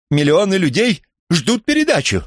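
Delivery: very high, loud cry; shouting. Acted. Captive presenter yelling that millions wait, high loud shout. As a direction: plead at the top of his voice. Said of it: "закричал он".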